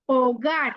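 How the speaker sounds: "ওগার" said o-gar, with no H sound; silent H. Shown as a demonstration. Teacher shows the Spanish H is not pronounced, silent H. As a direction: start "ওগার" straight on the open O, H left silent. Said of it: "এইচটা কিন্তু খোলো না".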